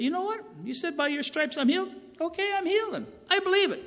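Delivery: high, fervent declaring of faith; fervent declaration. Retold or imitated. Man telling God he is healed, high and fervent. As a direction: proclaim it like you finally believe. Retold prayer, declaring healing aloud.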